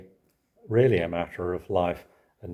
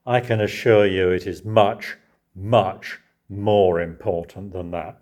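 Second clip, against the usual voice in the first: slow, emphatic, lightly voiced manager; deliberate, no Scots accent attempted; quoting Bill Shankly; 5 dB louder than usual. Preacher quoting the Liverpool manager, lightly voiced. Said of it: "He said this to Bill Shankly".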